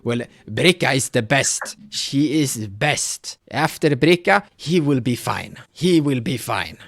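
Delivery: a hint of a worried elder pleading for help; village elder Haka. Elder reassures about healer.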